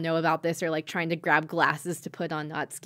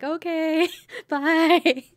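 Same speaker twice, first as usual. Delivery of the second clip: high-pitched mock "okay, bye"; chirpy retold exit; 10 semitones higher, 5 dB louder, much slower than usual. Haruka bowing out after Satsuki's warning, high and comical. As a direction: squeak out a quick comic goodbye.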